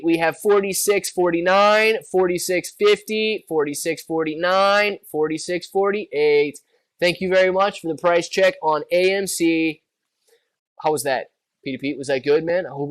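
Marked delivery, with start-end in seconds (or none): 0.0-6.6 slow droning intercom readout; flat rote cashier. Pretend. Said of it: "cashier at Walmart asking for a price check". 7.0-9.8 flat rote cashier. Pretend. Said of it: "cashier at Walmart asking for a price check".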